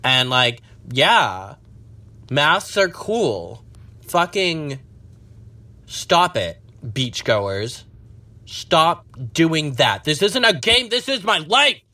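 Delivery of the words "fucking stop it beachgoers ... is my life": much higher, hammed-up plea; over-the-top despair; dramatic plea. Real, not acted. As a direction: beg the beachgoers theatrically. Pleading at beachgoers.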